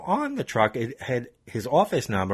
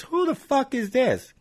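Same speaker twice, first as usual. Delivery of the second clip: much higher, slow, mock-furious snarl; angry demand; slower than usual. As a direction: imitate the road rager losing it. Road rager gets angry on phone.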